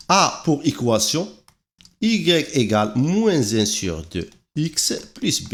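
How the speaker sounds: slow, word-by-word dictation pace. Acted. Teacher dictating the slope formula to students, slowly and evenly. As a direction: spell the formula out slowly for notes.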